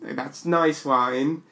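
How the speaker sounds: "nice" drawn out slowly, a rising approving verdict. Shown as a demonstration. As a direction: savour the word "nice" like a simple judge of wine. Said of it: "nice wine and not nice wine".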